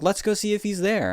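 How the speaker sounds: high, breezy mock dad; imitating dad. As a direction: toss it off like an eager dad. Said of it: "and he's like".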